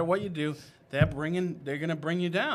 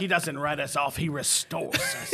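preacher voice; 3 dB louder than usual. Retold or imitated. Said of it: "some preaching alliteration".

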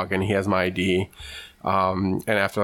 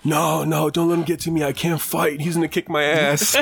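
higher, frantic mock pleading; mock panicked scream; 7 semitones higher than usual. Mocking the guy who cried he can't fight. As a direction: squeal like a coward begging off. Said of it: "all you hear is this guy screaming".

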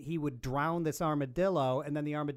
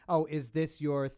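sarcastic. Retold or imitated. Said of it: "with the sarcastic air quotes".

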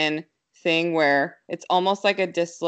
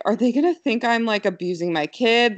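higher and a bit faster, mild retold panic; 5 semitones higher than usual. Mother fearing the doctors will suspect her, mild panic. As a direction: rush the worried thought. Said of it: "like, panicking".

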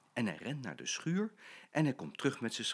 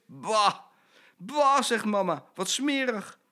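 disgusted mother; 10 semitones higher, 6 dB louder, slower than usual. Acted.

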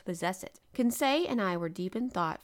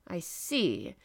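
unhurried, composed acknowledgement; a cool, untroubled reply; calm. A narrator's reading. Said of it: "said Captain Nemo calmly".

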